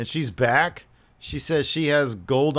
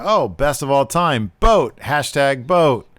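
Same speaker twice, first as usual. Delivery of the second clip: imitated eureka moment, punched louder toward the end; mock bright idea; 2 semitones higher, 5 dB louder, slower than usual. Lana coining a hashtag for Natty, mock excited. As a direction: act out a silly brainwave, stretching the hashtag. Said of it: "gets the bright idea".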